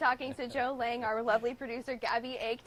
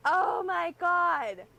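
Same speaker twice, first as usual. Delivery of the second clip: shrieking jackpot winner; 3 semitones higher, 6 dB louder, much slower than usual. Real, not acted. Reporter reacting to engagement news.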